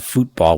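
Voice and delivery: "football" said as "fútbol", long oo as in food; futbol pronunciation. Shown as a demonstration. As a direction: say "football" the international way, "FOOT" rhyming with boot. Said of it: "majority of the world calls it".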